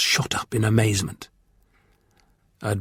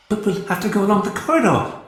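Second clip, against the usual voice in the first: put-on higher girl voice, hurried; quick; 9 semitones higher than usual. A narrator's reading. Captive girl stalling the warrior, higher and hurried. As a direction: point it out quickly. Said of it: "she pointed out quickly".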